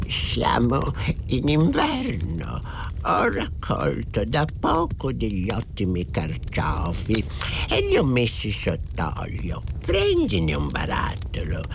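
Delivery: put-on slow, dragging old man's voice; drawn-out storybook old-timer; old farmer. A narrator's reading. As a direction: offer it like an unhurried elderly countryman. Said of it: "esclamò il vecchietto".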